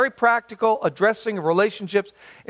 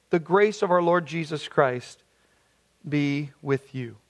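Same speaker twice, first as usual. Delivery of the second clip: lower, measured reading of a Bible passage; scripture reading; 3 semitones lower than usual. Acted. Pastor reads the letter aloud to his congregation, solemn and measured. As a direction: read it out solemnly, like a lesson.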